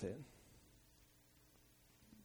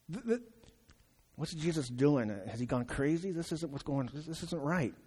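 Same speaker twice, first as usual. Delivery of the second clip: sputtering, shocked, softer; stunned disbelief; 4 dB quieter than usual. Pretend. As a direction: Pharisee aghast at the father, stunned.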